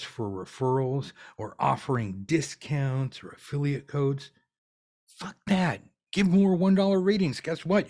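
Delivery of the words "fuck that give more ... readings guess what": high, louder, punchy command; fired-up coach shouting the rule; emphatic outburst. Real, not acted. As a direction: slam the idea down and push them on. Fired-up coach rejecting discounts.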